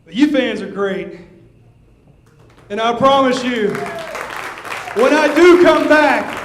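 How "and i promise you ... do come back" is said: rising vow. Real, not acted. Wrestler vows comeback to fans.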